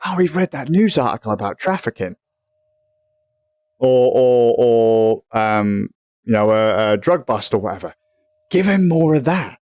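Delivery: a hint of a robotic recommender talking; the news algorithm deciding what to show, mock voice. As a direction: lightly voice the algorithm as a pushy feed.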